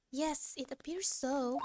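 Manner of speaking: lightly put-on British accent; posh-ish British reading. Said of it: "my British accent".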